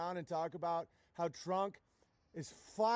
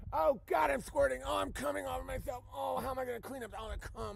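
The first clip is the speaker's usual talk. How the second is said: mock ecstasy; 4 semitones higher than usual. Parodying aroused Q follower.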